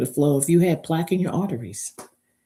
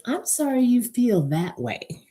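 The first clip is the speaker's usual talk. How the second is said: mock fake apology; 6 semitones higher than usual. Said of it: "not with".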